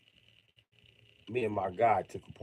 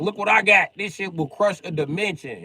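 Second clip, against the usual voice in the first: high boastful villain; 10 semitones higher, 8 dB louder than usual. Retold or imitated. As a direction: brag it like a cartoon villain. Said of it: "He'd be like".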